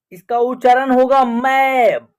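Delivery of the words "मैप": मैप with a long open 'ae'; AI vowel in मैप. Shown as a demonstration. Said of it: "ए का उच्चारण ऐ हो रहा है". (मैप में लंबा ऐ)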